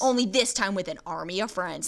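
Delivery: dramatic trailer announcer read; movie trailer voice. Shown as a demonstration. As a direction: voice it like a film trailer. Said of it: "That's my movie voice".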